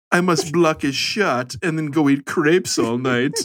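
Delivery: then extras. Retold or imitated. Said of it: "man of a thousand voices".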